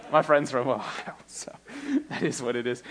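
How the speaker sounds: hushed, sheepish aside; whispered aside. Real, not acted. Preacher whispering an embarrassed aside to the congregation about a friend. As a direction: drop to a whisper for the confession.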